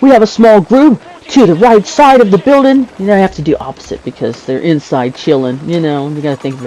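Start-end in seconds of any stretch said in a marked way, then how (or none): 0.0-2.9 lightly acted battlefield callout, a little higher; hint of a soldier's radio report; role-playing squad spotter. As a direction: report the group's position to the squad. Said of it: "So if I'm role-playing".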